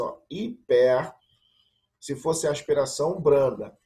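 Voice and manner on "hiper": hiper, drawn out slowly. Shown as a demonstration. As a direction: stretch hiper to show the sound. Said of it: "Percebeu a diferença?".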